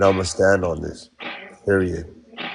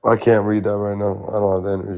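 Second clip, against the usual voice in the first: tired voice. Real, not acted. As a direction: speak like you have nothing left. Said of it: "I know you sound tired".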